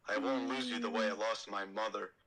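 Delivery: a hint of a brooding Anakin; lightly voiced young Jedi, reassuring. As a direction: Anakin in near-normal voice. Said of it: "my Anakin is pretty sick".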